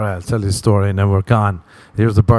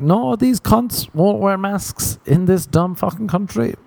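much higher, slow indignant whine; ranting son; 10 semitones higher, slower than usual. Pretend. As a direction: complain to mom, dragging it out up high. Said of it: "I'll be like".

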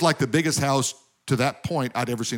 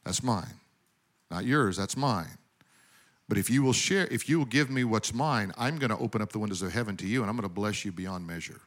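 a calm, quieter, firm voice of God; 3 semitones lower, 5 dB quieter than usual. Retold or imitated. Preacher voices God gently telling people the tithe is his. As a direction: speak as God, quietly claiming what's his. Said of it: "God said".

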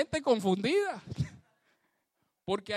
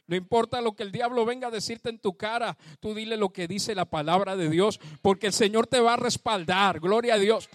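fervent preaching; 4 dB louder than usual. Real, not acted. Preacher exhorting the congregation.

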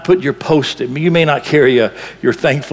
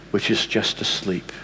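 hushed; 6 semitones lower, 10 dB quieter than usual. Real, not acted. Soft closing line.

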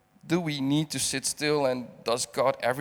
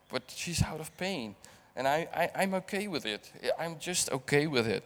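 quiet grief; 7 dB quieter than usual. Real, not acted. Mourning his mother.

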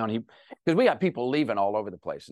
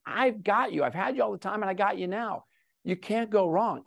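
higher-pitched, earnest assurance; insistent reassurance; 6 semitones higher than usual. Retold or imitated. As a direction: build upward into heartfelt reassurance, as God speaking. Voices God's insistent reassurance to him.

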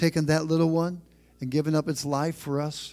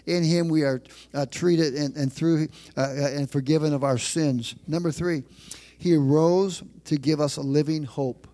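louder preaching, building to the point; 3 dB louder than usual. Acted. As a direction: preach it with rising force to the church. Pastor raising the sermon.

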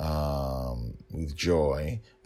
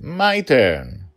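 put-on high, loud eager child; a small girl pushing to fight; little girl voice; 7 semitones higher, 7 dB louder than usual. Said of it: "Dragonlil said".

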